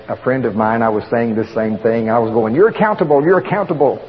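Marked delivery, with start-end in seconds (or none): 2.5-4.0 put-on "accountable" said with an Oklahoma accent. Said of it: "with my Oklahoma accent".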